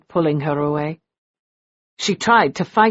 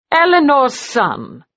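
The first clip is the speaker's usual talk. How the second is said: stunned repeat; 6 semitones higher than usual. A narrator's reading. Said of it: "he said".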